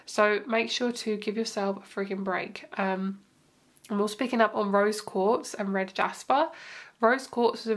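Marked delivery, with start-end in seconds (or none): none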